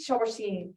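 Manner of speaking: Chambourcin settled on, French style, falling at the end; French pronunciation. Shown as a demonstration. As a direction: Chambourcin said the French way, shom-boor-SAN. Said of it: "trying to say it with a little French accent".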